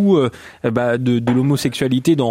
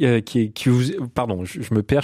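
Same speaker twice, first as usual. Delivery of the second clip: hoarse, failing voice; voice giving out; 3 semitones lower, 3 dB quieter than usual. Real, not acted. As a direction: voice fading and cracking. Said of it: "je suis désolé, c'est ma voix".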